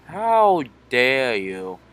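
slow, outraged demand; shaking with anger. Real, not acted. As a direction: drag out each word in fury. Rival refuses to die.

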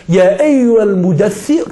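slow chanted Arabic verse; Quran recitation. Acted. Preacher quoting the call to the Prophet, chanted recitation. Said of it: "als Allah zu ihm gesagt hat".

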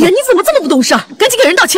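rapid-fire motherly reproach; hurried, impatient telling-off; exasperated scolding. Acted. Mother scolds daughter after guest leaves.

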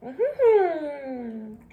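humming while slurping noodles; chewing with lips closed; mouth full of noodles. Real, not acted. Seen 3: Noodles hang from her mouth throughout the hummed words.

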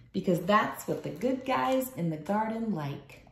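lively picture-book read-aloud; reading to children. Acted. Teacher reading a picture book aloud to her class. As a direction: read it like a storybook for little kids.

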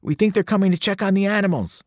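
lightly voiced nervous Grover. A narrator's reading. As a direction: keep it tense and hushed.

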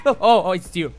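relieved laughter. Real, not acted. Relief after jump scare.

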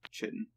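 chitin said CHIT-in, ch as in chip; habitual mispronunciation. Shown as a demonstration. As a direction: say chitin with a ch, not a k. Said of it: "I'm kinda used to saying it as".

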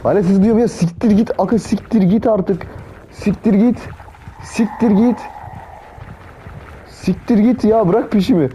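high, frantic begging, over and over; real fear, voice cracking high; panicked pleading. Real, not acted. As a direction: shriek at the chaser to leave you alone. Still chased by the monster.

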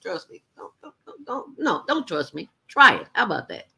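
high mocking voice of a friend pretending to listen; mock polite friend. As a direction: humour someone while dodging their breath. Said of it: "talking to you like this".

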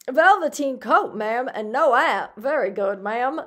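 loud, badly faked working-class London accent; attempted London dialect. Cabman answering ma'am's order, attempted London working-class dialect. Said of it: "This is supposed to be dialect".

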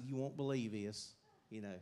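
Hee Haw twang. Retold or imitated. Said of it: "Sound like something on Hee Haw".

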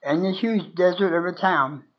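measured recital with long pauses between lines; poem reading. Acted. Sharing own poem The Drifter with viewers, poem reading.

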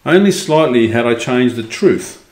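measured, expressive storybook reading; story narration. A narrator's reading. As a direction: read it out as a first-person tale. Reads the story aloud.

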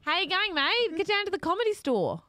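put-on a friendly Aussie greeting in a light Australian accent; mock Australian accent. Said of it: "That's actually not bad".

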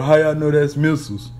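mock the skeptic's challenge; mocking heathen. Preacher mimics a heathen questioning the Bible, scoffing. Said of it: "a damn, uh, heathen asking us".

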